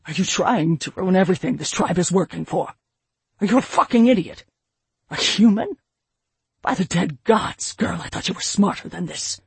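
loud, raging chieftain voice; furious father. A narrator's reading. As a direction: tear into her. Furious father berating daughter.

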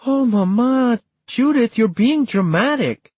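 high-pitched, dismayed protest; exasperated sibling scolding; exasperated exclaiming. A narrator's reading. Acted exclamations in family quarrel.

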